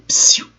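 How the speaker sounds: a hissed "Psiu" to call for silence; shushing psiu. Shown as a demonstration. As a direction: hush the class. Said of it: "Ordem para fazer silêncio". (pedido de silêncio sussurrado)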